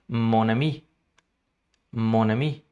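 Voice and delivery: mon ami in French, ami with no final sound; French pronunciation. Shown as a demonstration. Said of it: "ele explicou o seguinte". (pronúncia francesa de mon ami)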